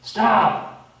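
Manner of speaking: sharp high yell of a parent; retold scream. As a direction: shout it to stop a child. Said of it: "I scream out".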